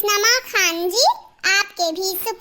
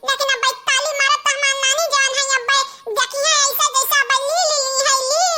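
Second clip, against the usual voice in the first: lightly voiced high, quick child; gleeful child; 5 semitones higher, faster than usual. Child telling mummy the beating is fun, lightly gleeful. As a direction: relish the fight like a kid.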